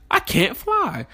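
put-on high, small voice of a crying three-year-old; little daughter voice. Dad imitating his upset little girl calling for him in a high voice. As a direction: pitch up into a tiny child whimper.

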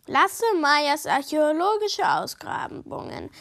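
a hint of mock ceremony; lightly voiced solemn proclamation. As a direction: announce it grandly, but lightly. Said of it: "sagt Maya feierlich".

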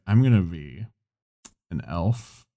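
low, soft and slow, a mumbled fantasy pitch; lightly voiced awkward player describing his elf; mock Dusty voice. Imitating Dusty announcing his elf to the group, low and slow.

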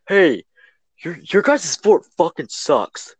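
drawn-out mock taunt; imitated heckle. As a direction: call out like a cocky friend, lightly acted. Friend heckles kids from street corner.

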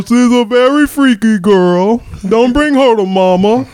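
lightly voiced rapper impression; a rapper. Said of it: "you got the rapper Gucci Mane".

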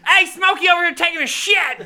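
high, loud movie-quote holler; imitated calling out. Dude in Friday outing Smokey, imitated holler. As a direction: call it out for all to hear. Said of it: "He's like".

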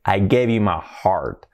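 "I gave you my heart" whispered, slow; whispered demo. Shown as a demonstration. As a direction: breathe the line to the class. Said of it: "whispered demo line".

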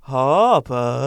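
different intonation. Shown as a demonstration. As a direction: ask the name like a question. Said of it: "say it with different intonation every time".

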